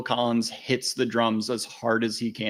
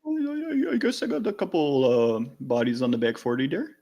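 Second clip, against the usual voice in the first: put-on Wisconsin accent; 4 semitones higher than usual. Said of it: "does that exact same voice".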